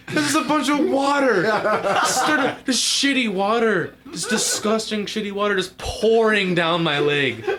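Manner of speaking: cracking up while telling it; giggling storyteller reliving the disaster; laughing. Real, not acted.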